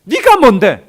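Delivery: high, loud accusing outburst; pouring out resentment. Retold or imitated. Widow blaming Elijah for her son's death, resentful outburst. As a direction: lash out at the prophet. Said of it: "막 원망을 쏟아내고 있어요".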